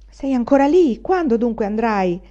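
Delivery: put-on old woman's impatient yell; calling out impatiently. A narrator's reading. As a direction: call up to someone dawdling indoors. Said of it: "gridò la vecchia dal cortile".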